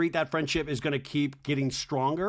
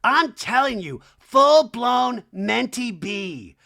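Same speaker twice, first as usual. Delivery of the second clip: mock Kyle; 5 semitones higher, 6 dB louder, slower than usual. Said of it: "And Kyle's like".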